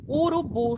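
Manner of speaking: "Urubu" with the final bu strongest; stress on bu. Shown as a demonstration. Teacher sounding out a word for students, stressed bu in "Urubu". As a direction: land firmly on the last syllable of "Urubu". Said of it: "A sílaba mais forte é bu".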